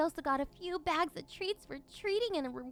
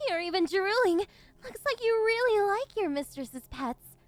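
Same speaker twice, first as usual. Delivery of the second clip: gloating laugh; 5 semitones higher, 7 dB louder than usual. Acted. Mistress gloating over drooling pet.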